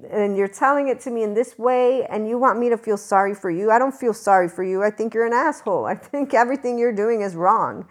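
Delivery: worked-up re-enactment of a scolding; passionate retold rebuke. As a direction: replay telling off a friend. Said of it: "I get very passionate".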